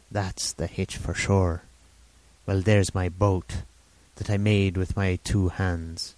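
lightly voiced rambling old sailor; a hint of an eager half-mad hermit; old castaway Ben Gunn.

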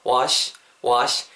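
"wash" ending in a light "shi" without rounded lips; clean sh ending. Shown as a demonstration. Teacher models for learners, "wash" with a simple sh. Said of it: "그냥 깔끔하게 그냥 시 발음하시면".

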